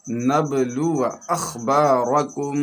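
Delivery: slow joined-up reading; blended recitation. Shown as a demonstration. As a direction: recite slowly, syllables flowing together.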